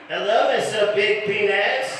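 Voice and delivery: put-on high, drawn-out French-accented greeting; slow, mock French-accented neighbor's hello. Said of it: "it's weird with her French accent".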